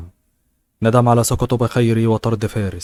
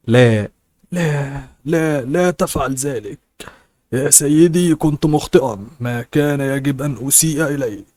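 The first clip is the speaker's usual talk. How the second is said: desperate begging; 4 semitones higher than usual. A narrator's reading. The old man begs Fares for mercy, high and panicked. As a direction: beg for mercy in a raised, panicked voice. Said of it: "ويتوسل إليه أن يرحمه".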